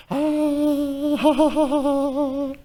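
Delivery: high, drawn-out "ha-ha-ha" laugh; put-on peal of laughter; acted hearty laugh. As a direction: imitate a big open laugh, held long. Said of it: "이러시지 않으셨겠습니까?".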